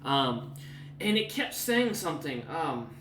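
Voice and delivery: lightly voiced woman recalling; a touch of sudden recollection; remembering NPC. Woman recalling the hag's shield, lightly voiced. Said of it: "kinda thinks for a second and goes".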